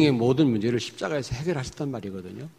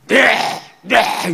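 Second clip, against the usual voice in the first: high, loud eager "yes!"; mock the cowed flock shouting yes; preacher mimics the congregation answering obediently, eager yes; eager congregants; 8 semitones higher, 5 dB louder, much slower than usual. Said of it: "이러고 있어요".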